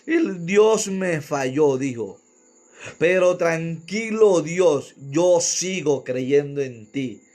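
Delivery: slow, whiny tearful quote; mock weeping preacher. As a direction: parody a preacher crying on stage. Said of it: "va ahí llorando".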